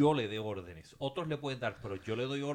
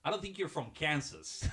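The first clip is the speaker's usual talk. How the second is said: imitating the teacher; 5 semitones higher, slower than usual. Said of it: "me dice".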